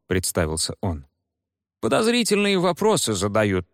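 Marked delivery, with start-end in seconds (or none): 1.8-3.7 officer reporting. Acted.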